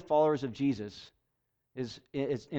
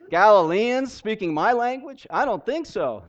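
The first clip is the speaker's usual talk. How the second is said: higher, louder, questioning disbelief; mock disbelief; 5 semitones higher, 5 dB louder than usual. Preacher voices the crowd hearing Galileans speak their language, mock disbelief. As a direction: act out an amazed onlooker, lightly.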